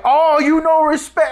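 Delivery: high mocking voice, broken English; mimicking the aunt. Aunt scolding about respect, in a high mock voice.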